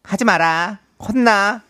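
pressed, gruff actor voice; Hwang Jung-min impression. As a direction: push the voice down hard. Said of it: "다음 황정민 씨 가겠습니다".

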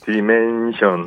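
slow, stretched AI diction; measured mock-machine reading; AI pronunciation. Shown as a demonstration. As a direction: draw the word out like a synthetic voice. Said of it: "에이아이 발음으로 한번 다시".

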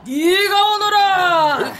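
put-on slow, loud rude old granny; foul mouthed granny. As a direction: bark it back like a cranky granny. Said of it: "그 옆집 욕쟁이 할매 좀 따라해봤어".

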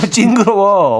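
put-on high, slow toddler whine; childish whine. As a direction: whine it like a fussy kid. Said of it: "소리 지르면서 울더라고요".

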